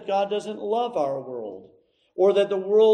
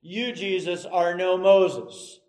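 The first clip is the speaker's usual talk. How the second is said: grumbling crowd; 2 semitones higher, 4 dB louder than usual. Acted. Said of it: "the older ones in the crowd are saying".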